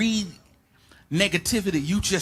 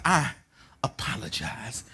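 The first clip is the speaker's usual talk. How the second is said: humble retold apology; 3 semitones lower, 7 dB quieter, slower than usual. Job humbly apologises to God.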